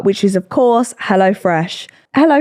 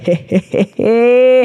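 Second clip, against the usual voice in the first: nervous fake chuckle; slower than usual. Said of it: "And I was like".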